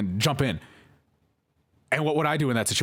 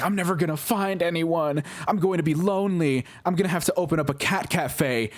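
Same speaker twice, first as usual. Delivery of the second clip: mock despair; 7 semitones higher than usual. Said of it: "she's like".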